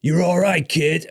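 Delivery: high, loud retold reassurance; mock loud approval. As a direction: imitate a brash older skater grabbing you. Phelps grabbing him, retold.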